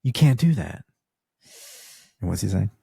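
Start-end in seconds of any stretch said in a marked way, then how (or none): 0.0-0.8 high, loud protest; Xander shouting. Retold or imitated. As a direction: call out to stop him, loud and high. Xander confronts Angel.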